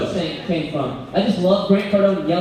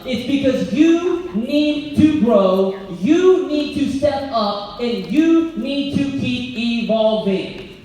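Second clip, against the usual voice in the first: rousing climax; 6 semitones higher, 4 dB louder, slower than usual. Real, not acted. Climax of motivational point.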